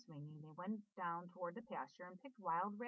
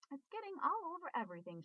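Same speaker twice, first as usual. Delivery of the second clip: shout; 7 semitones higher, faster than usual. A narrator's reading. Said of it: "shouted Fern".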